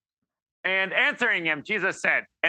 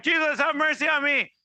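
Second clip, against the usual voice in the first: raised pleading call; crying out; 9 semitones higher than usual. Retold or imitated. Beggar calls out to Jesus, pleading. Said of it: "he was like".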